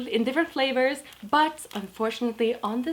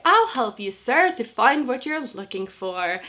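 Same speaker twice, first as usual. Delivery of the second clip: forced polite smile; 3 semitones higher, 4 dB louder, slower than usual. Retold or imitated. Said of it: "I keep my Disney smile on".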